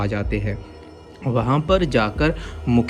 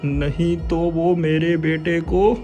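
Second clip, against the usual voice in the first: high desperate voice; pleading father; 8 semitones higher, slower than usual. Acted. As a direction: beg for your son. (बेटे के लिए गिड़गिड़ाता पिता)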